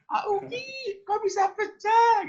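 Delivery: very high, loud put-on mother's cry; flustered mother. Mother scolding the child over the broken plate, very high and loud. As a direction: squeal it like a startled mum. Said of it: "itu kayaknya ekspresinya".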